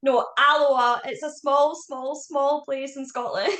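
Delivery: slow, patient, laughing explanation. Retold or imitated. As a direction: explain it slowly, cracking up. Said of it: "and I'm like".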